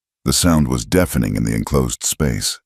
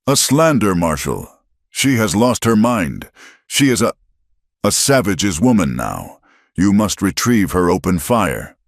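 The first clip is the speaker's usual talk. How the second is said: mild screaming; 4 semitones higher than usual. Acted. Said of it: "Finch screamed".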